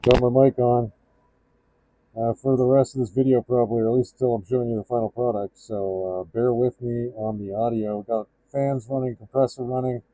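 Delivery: muffled behind a respirator mask; talking through a mask. Real, not acted. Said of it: "Gonna be speaking through the respirator".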